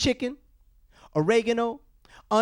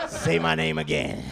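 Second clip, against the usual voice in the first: low, slow and sultry; seductive voice; 4 semitones lower, slower than usual. Pretend. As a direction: purr it slowly.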